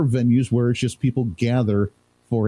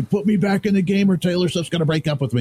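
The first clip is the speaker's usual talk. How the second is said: higher-pitched mock yell, no real volume; Travis Kelce; 7 semitones higher than usual. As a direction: imitate a player pleading urgently with the coach. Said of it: "Travis Kelce yelling at the coach".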